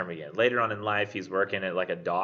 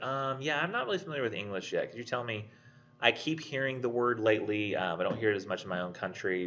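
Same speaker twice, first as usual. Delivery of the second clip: a hint of a hesitant non-native speaker, softer; lightly voiced foreign learner; 4 dB quieter than usual. English learner asking what death means, mildly softer. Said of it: "somebody who doesn't speak English".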